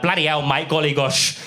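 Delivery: lightly hammed-up Cockney; Cockney accent. Fake-British guest moaning about spicy food, Cockney accent. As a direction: complain in a mock Cockney accent. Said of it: "I spoke in a Cockney accent".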